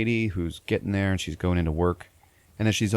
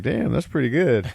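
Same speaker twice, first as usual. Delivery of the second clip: impressed; 7 semitones higher, 4 dB louder than usual. Retold or imitated. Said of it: "I was like".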